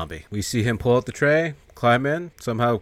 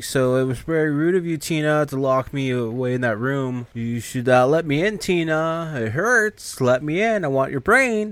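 higher, creepy pleading zombie voice; 4 semitones higher than usual. Acted. Zombie Freddy begging Tina at the door, eerie high plea. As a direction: coax her like a hungry undead. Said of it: "Freddy's like".

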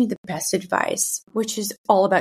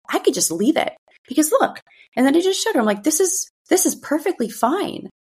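reassuring mom voice; 4 semitones higher than usual. Retold or imitated. Reassuring daughter about her body.

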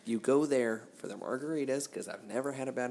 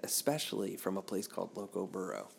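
mock dictionary reading; 3 dB louder than usual. Mock dictionary definition read out.

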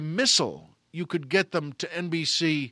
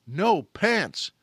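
louder, slow, hammed-up alarm; mock alarm; 2 semitones higher, 5 dB louder than usual. Panicked retelling of missing pants.

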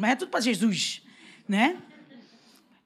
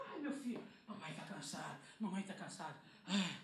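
exhausted, far softer sighing voice; tired mother; 6 semitones lower, 22 dB quieter than usual. Retold or imitated. Tired mother answering her son, soft and exhausted. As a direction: breathe it out, worn out.

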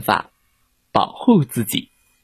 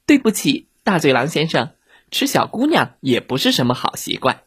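put-on polite little girl; 3 semitones higher than usual. Red Riding Hood answering the fallen wolf, politely reproving. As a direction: apologise primly, then gently reprove.

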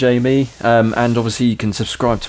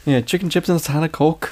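bad Northern accent; 6 semitones higher than usual. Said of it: "I can't do it. It's shit".

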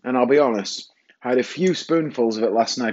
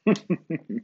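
short high giggle; amused giggle; 4 semitones higher than usual. Real, not acted. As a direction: giggle at your own indulgence. Giggles around the spoonful.

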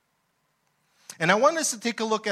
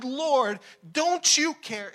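annoyed complaint; 6 semitones higher, slower than usual. Acted. Martha complaining to Jesus.

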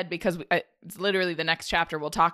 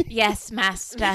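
Smeagol voice; slower than usual. Pretend. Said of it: "It's like Smeagol".

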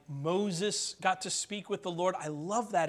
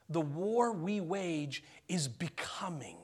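whisper; 4 dB quieter, slower than usual. Acted. Repeating key line as whisper.

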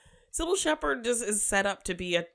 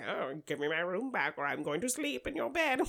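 obnoxious man; 4 dB quieter than usual. Retold or imitated. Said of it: "terrible man coming in your room".

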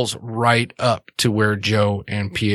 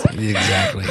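a squealed "exactly" through laughter, much higher; laughing hard. Real, not acted. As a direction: squeeze the word out while cracking up.

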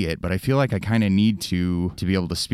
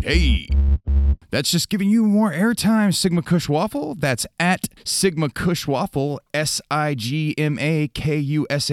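hyped call-out; 7 semitones higher, 3 dB louder than usual. Acted. Shout-out call-out to listener.

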